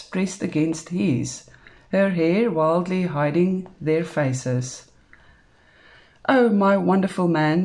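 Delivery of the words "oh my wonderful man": loud, breathless lover's murmur; muttered. A narrator's reading. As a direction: gush it between kisses. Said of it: "she muttered between the kisses".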